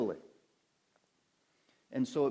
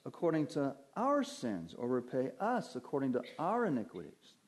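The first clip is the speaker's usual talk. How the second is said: each "our" lifted in pitch; stress on OUR. Shown as a demonstration. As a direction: punch every "our" to include everyone. Stressing plural pronouns of psalm.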